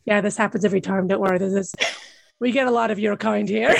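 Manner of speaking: weary cinema staff. Retold or imitated. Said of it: "they're probably like".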